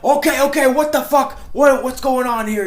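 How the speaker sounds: high mock voice of an aggressive sheriff; imitating the sheriff. Mocking the sheriff who walked up on them, high mock voice. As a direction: ham up the sheriff barging in, high and put-on. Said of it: "and he's like".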